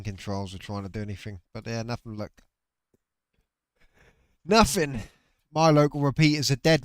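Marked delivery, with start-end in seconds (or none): 4.4-6.8 louder and higher, fed-up outburst; a real frustrated shout at the dead radio; exasperated exclaim. Real, not acted. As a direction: blurt it out, sick of the silence.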